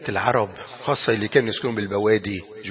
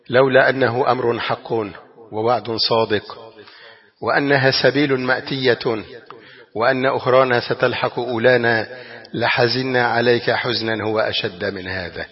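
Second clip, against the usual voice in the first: tender grief; slower than usual. Acted. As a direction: speak gently, holding back grief. Tender quote of Prophet to dead son.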